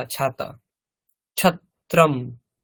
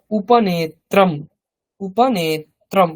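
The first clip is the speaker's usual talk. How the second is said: slow modeling; 2 semitones higher, slower than usual. Shown as a demonstration. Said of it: "teacher models Sanskrit word".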